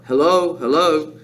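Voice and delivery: parrot's repeated hello; separate, evenly repeated bird greetings; parrot calling. A narrator's reading. Parrot calling down the chimney to Matilda, parrot voice. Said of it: "the bird called down to her".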